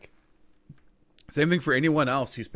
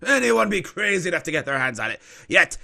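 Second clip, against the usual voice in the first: slow, drawn-out tale of riches; informant selling a legend; 4 semitones higher, 7 dB louder than usual. Acted. Informant telling adventurers of the great sapphire, grandly slow. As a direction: savor each boast as a rumour-seller. Game master voices the informant.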